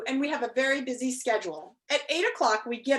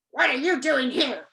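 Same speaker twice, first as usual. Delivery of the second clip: growled; 5 dB louder than usual. Acted. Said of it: "growled the watchdog".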